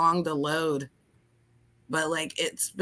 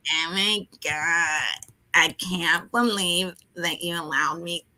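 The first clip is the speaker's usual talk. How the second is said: whiny nasal; 3 semitones lower than usual. Shown as a demonstration. Guest trying the nose voice, whiny nasal. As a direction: drag it out whinily through your nose. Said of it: "talk through your nose".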